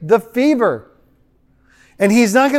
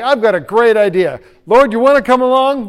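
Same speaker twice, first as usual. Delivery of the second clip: louder, higher, eager invitation; eager pitch; 4 semitones higher, 5 dB louder than usual. Acted. Believer pitching an idea to the Lord, eager.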